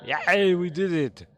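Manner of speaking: loud, high whoop of triumph; excited cheer. Real, not acted. Player celebrating that we did it, excited cheer.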